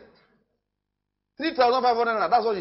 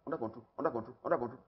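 soft repetition; 8 semitones lower, 10 dB quieter, much faster than usual. Acted. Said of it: "repeating softly".

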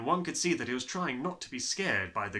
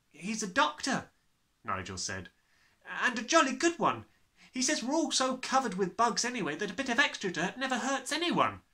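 put-on boy's voice; 11 semitones higher, 4 dB louder than usual. Nigel answers cheerfully.

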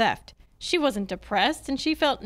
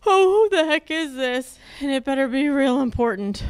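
louder, cranky challenge to the caller; irritated demand; 4 dB louder than usual. Acted. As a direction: bark it, annoyed at being woken. Angry at being woken.

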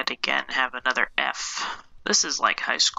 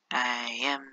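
French bread voice; 4 semitones lower, slower than usual. Pretend. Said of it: "I am French and angry".

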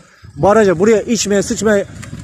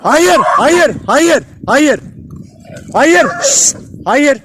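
sharp shout; 6 semitones higher, much slower than usual. Real, not acted. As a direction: break up the dogfight with your voice. Stopping dogs fighting over bread.

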